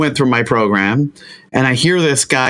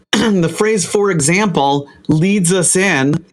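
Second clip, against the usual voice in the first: higher, slowed build to the phrase; magic phrase reveal; 4 semitones higher, slower than usual. Shown as a demonstration. Coach revealing magic phrase to audience, higher and slow. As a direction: unveil the phrase like a secret. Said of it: "can I give your audience a magic phrase".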